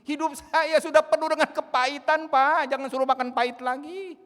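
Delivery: loud, high pleading protest; whiny complaint. Retold or imitated. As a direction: beg the pastor to stop making you eat bitter things. Parishioner complains to pastor.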